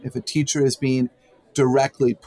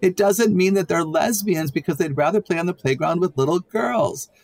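higher, smiling, gently amused; smile in voice; 5 semitones higher than usual. Real, not acted. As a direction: talk with an audible smile. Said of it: "you can hear the smile in my voice".

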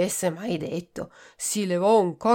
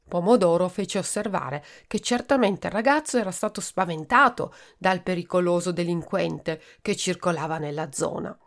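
ordinary delivery, nothing marked

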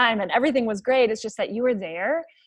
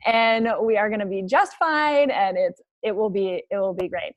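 laughing self-pep talk; cheerful resolve; 2 semitones higher, 6 dB louder than usual. Retold or imitated. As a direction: snap out of it with a laugh and a bright promise. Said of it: "And I was like".

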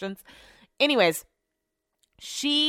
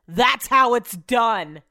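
smug gloat; 2 semitones higher, 6 dB louder, much slower than usual. Retold or imitated. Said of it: "leans over ... to the lady and says".

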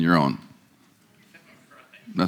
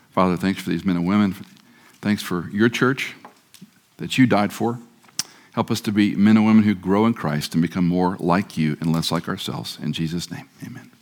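closing prayer; 2 semitones lower than usual. Acted. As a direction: pray over them gently to close.

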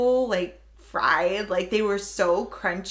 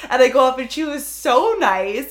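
ordinary talk

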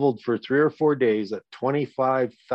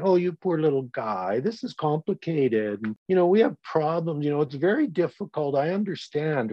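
mock-soothing sergeant, higher and fast; baby the troops in a sarcastic coo; mock coddling sergeant; 5 semitones higher than usual. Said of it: "he's hugging them and saying".

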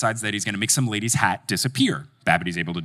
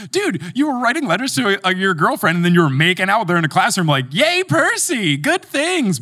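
laughing mock praise; 7 semitones higher than usual. Mocking Percy while laughing.

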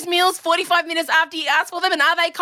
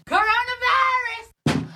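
mock dramatic reveal; 11 semitones higher, slower than usual. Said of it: "mocking husband's reveal".

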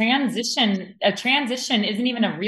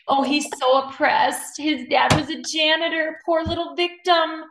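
higher, slow mocking singsong; sarcastic mock pity; 5 semitones higher than usual. Host mocking the contestant's janitor dad story in sarcastic singsong. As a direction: sneer out the fake sympathy slowly.

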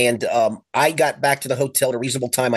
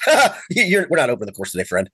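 laughing course worker. Retold or imitated.

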